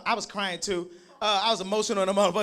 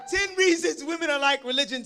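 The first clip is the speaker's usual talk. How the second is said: announcing title; 6 semitones higher, 4 dB louder than usual. Real, not acted. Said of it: "poem title announced".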